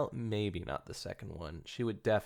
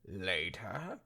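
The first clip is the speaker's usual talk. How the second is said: frowning echo; 3 dB quieter than usual. Acted. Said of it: "Rainbow echoed, a frown beginning".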